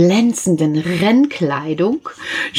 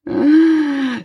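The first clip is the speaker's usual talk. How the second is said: short, high scoffing laugh; mocking laugh; 9 semitones higher than usual. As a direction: laugh at someone a little. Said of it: "lachte den Igel ein wenig aus".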